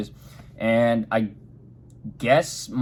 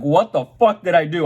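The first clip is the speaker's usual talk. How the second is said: higher and louder confused panic; panicked outburst; 5 semitones higher, 4 dB louder than usual. Retold or imitated. Retelling the sirens coming on, a raised panicked what. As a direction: blurt it out in alarm.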